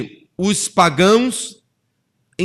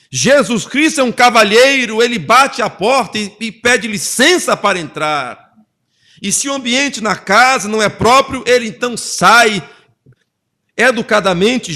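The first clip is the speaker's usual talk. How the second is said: preaching; 4 semitones higher, 4 dB louder than usual. Acted. Preaching contrast, raised voice.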